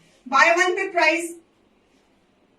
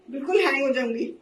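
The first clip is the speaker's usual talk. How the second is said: laughing; 2 semitones lower, faster than usual. Real, not acted. Joking she'll crash from memory.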